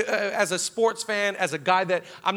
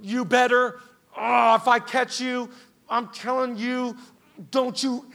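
mock parental threat, broken by pauses; scolding parent; 3 semitones higher than usual. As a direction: act out an exasperated parent's warning, slowly. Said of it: "saying not".

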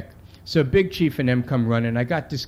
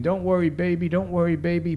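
imitated shriek; 5 semitones higher than usual. Mother shrieking comfort to her son, mild imitation. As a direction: call it out high but held back. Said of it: "she's shrieking".

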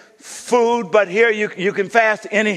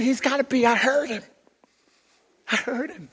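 higher-pitched, lightly voiced child; daughter insisting; 4 semitones higher, 5 dB quieter than usual. Daughter telling her mother she heard him, higher lightly voiced child. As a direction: insist like a puzzled little girl. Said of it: "She said".

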